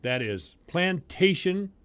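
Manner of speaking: ordinary talk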